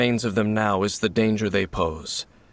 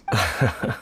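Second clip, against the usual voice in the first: chuckle; 2 semitones lower than usual. Acted. Amused reply to listener's remark.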